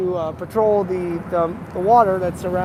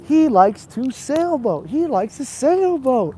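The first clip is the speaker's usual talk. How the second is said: slow, loud, higher; slow mock teaching voice; 7 semitones higher, 5 dB louder, slower than usual. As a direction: spell it out for a student. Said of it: "I was like".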